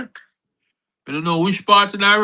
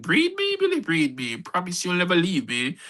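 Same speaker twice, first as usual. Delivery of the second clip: mimicked lover's plea; 7 dB quieter than usual. Wife quoting the helper with Billy, mimicked plea. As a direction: lightly imitate a pleading lover.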